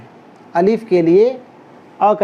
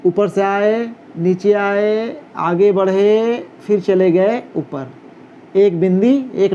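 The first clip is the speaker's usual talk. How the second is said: slowed down on नीचे आए and आगे बढ़े; walk them through each stroke slowly, step by step; slow stroke demo. Shown as a demonstration. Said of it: "और एक बार देख लें".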